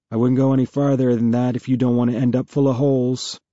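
muffled through a helmet. A narrator's reading. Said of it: "a muffled voice says".

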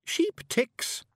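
very high Scots; musing aloud; thoughtful Feegle. A narrator's reading. Awfully Wee Billy ponders for Miss Level in a very high voice. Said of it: "said Billy thoughtfully".

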